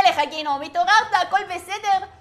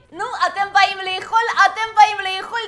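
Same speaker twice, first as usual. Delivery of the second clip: raised, higher call, building on the repeat; calling to dinner; 4 semitones higher, 5 dB louder than usual. Pretend. Host calling game characters to come eat, raised call. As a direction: summon everyone to the table.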